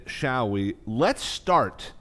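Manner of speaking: usual speaking voice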